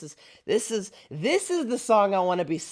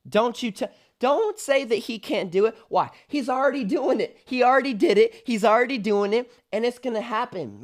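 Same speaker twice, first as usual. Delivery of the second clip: higher, emphatic rebuttal; fervent declaring; 4 semitones higher, 4 dB louder than usual. Real, not acted. Worship fan answers doubters about what God can do, fervent. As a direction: declare it with rising conviction.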